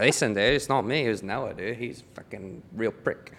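lightly put-on Australian accent. Caller blaming Noah for the calls, in a put-on Australian accent. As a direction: play the assistant with an Australian accent. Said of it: "approach me with the accent".

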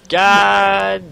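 very slow, stretched-out curse; drawn-out groan. Real, not acted. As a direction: drag every word out.

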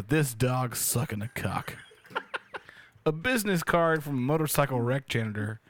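dramatic reading. Acted. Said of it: "I'll read it as funny as I can make it".

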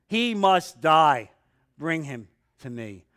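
loud, very slow, hammered death order; menacing king. Acted. Saul demands David's death, slow loud menace. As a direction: spit out the order to kill. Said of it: "Saul's anger flared up".

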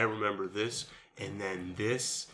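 mock wooden actor, in chunks; stiff memorized line delivery. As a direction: read it like rote lines. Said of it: "says it in blocks".

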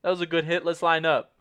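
imitating a good sport cheering an opponent; earnest, friendly compliment; genuine. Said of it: "so genuine".

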